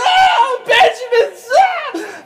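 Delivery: very high, drawn-out fake wail; mock bawling. Joseph alone in his room over his brother, mock bawling. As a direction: bawl it out, hammed-up and half laughing. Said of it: "starts crying".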